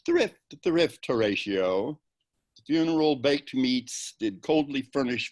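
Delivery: high, loud bitter scoff; bitter irony. Acted. Bitter jest on hasty wedding.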